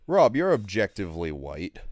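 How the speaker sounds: OBJECTIVELY pushed high and loud; stress on objectively. Acted. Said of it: "Why'd you say objectively like that".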